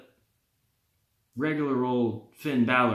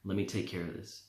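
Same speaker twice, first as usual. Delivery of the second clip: low, much softer tempting murmur; demon whisper; 5 semitones lower, 10 dB quieter, faster than usual. Retold or imitated. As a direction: breathe it into his ear like a demon. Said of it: "the demon's whispering in his ear".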